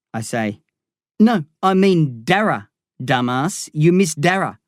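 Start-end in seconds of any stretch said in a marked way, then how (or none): 1.2-4.6 Darren, cocky gangster. Acted. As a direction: rib your old mate with swagger.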